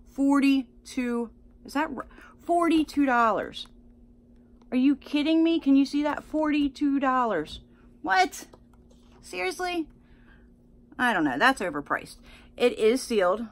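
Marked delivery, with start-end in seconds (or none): 0.1-9.9 shocked. Real, not acted. Shocked at the price.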